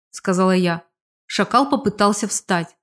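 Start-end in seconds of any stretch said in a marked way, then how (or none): none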